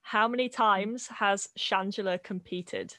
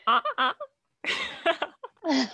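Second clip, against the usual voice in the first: buzzer noise; 9 semitones higher, 3 dB louder than usual. Shown as a demonstration. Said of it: "See, I go".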